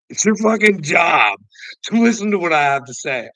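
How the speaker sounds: angry shout. Retold or imitated. Confronting the police officer at the station door, shouting. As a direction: shout it at him, furious.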